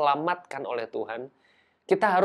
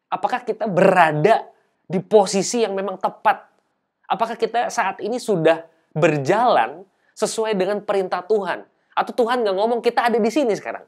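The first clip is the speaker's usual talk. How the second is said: urgent preaching; 4 semitones higher, 3 dB louder than usual. Acted. Preacher presses hard questions.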